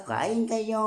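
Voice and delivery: calling out. Real, not acted. Inviting again.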